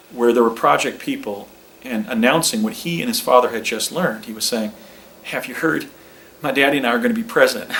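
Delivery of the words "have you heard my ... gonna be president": put-on quick boyish boast; mock eager young Bush, rushing the line; lightly voiced excited son; impersonating George W. Bush. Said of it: "let me try that again".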